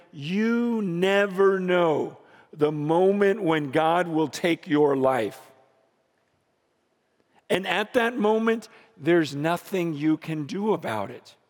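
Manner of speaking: solemn warning. Retold or imitated. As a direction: deliver a grave funeral warning, measured. Preacher quotes friend's funeral warning.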